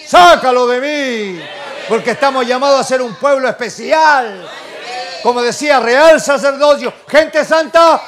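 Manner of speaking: loud, impassioned sermon shout; full-force preaching. Real, not acted. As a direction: cry it out to the congregation, drawing out key words.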